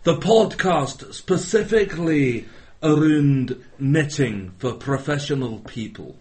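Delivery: a weak put-on Scottish accent; bad Scottish accent. Mock host of a knitting show in Scottish accent. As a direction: lightly fake a Scottish accent. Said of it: "why my Scottish accent's so bad".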